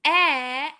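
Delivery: "eh" clearly voiced, mouth half open; short e sound. Shown as a demonstration. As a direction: demonstrate the short e. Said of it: "two fingers in front of my mouth".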